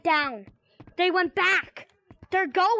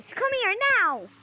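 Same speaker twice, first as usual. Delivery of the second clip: calling out; 4 semitones higher than usual. Acted. Calling children who won't listen.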